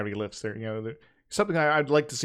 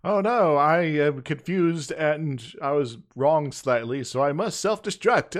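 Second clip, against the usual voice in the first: malfunctioning robot in alarm; robotic error message; 4 dB louder, slower than usual. Acted. Voicing Nomad self-destruct.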